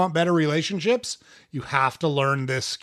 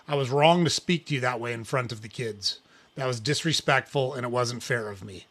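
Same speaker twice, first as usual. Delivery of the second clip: sincere real apology; 3 semitones lower than usual. Shown as a demonstration. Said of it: "A real apology sounds like this".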